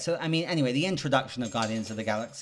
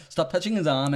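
Star-Lord voice; 5 semitones higher, 4 dB louder than usual. Retold or imitated. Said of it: "Star-Lord's like".

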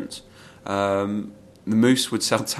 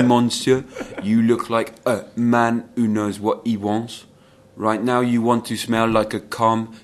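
put-on smooth French shop assistant accent; 4 dB louder, slower than usual. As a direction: sell perfume in a suave French accent. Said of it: "one of the best French accents".

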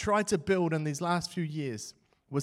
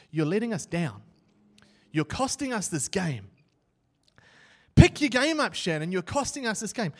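scolding teammate, loud on "Pick your game up"; angry captain; 3 semitones higher, 4 dB louder than usual. Retold or imitated. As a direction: chew out the goalie in front of the team. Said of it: "he looks at me and said".

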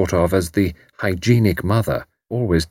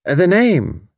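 encouraging Irish landlady; 9 semitones higher than usual. A narrator's reading.

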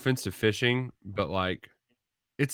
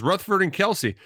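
high squeaky mocking voice, much higher; mock heckling voice; 10 semitones higher, 4 dB louder than usual. Reading a heckling text aloud.

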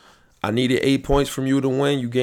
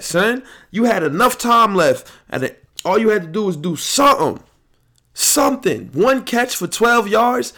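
starts loud, then climbs much higher and louder into a shouting tirade; furious rant; 6 semitones higher, 4 dB louder than usual. Real, not acted. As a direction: chew out the player who cost you the title, getting higher and louder as it goes. Ranting at player who lost championship.

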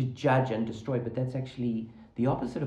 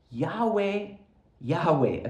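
YAHWEH said twice, each set apart by a pause, the first higher; emphatic proclamation; 4 semitones higher, slower than usual. Retold or imitated. Preacher voicing God declaring his name to Moses, emphatic. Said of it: "it's emphatic".

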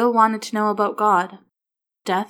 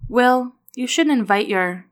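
higher, louder, slow mother's scold; mother scolding her son for inviting himself; 5 semitones higher, 5 dB louder than usual. A narrator's reading. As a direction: tell the boy off firmly. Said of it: "Dana scolded him".

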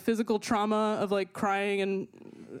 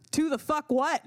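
baffled outburst; 6 semitones higher than usual. Retold or imitated. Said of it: "And I was like".

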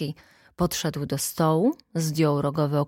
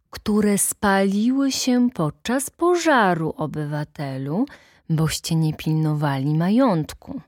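calmly; 2 semitones higher, 4 dB louder than usual. Acted. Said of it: "powiedział spokojnie pan Stasinek".

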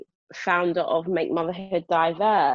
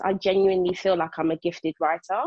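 with my chest. Real, not acted. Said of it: "I'll say this bit with my chest".

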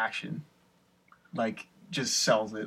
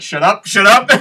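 higher, louder playful shush; mock hushing; 7 semitones higher, 13 dB louder than usual. Retold telling friends off.

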